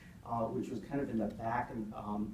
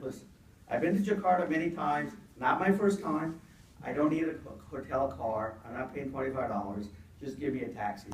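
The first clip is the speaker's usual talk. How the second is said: annoyed; 2 semitones higher, 3 dB louder than usual. Retold or imitated. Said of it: "getting really annoyed and irritated".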